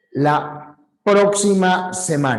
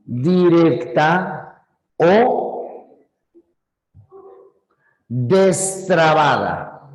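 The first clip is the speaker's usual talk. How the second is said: slow drawn-out o; much slower than usual. Shown as a demonstration. Teacher spelling out the term for students, slowly. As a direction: stretch the o out slowly. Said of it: "también se la llama directa".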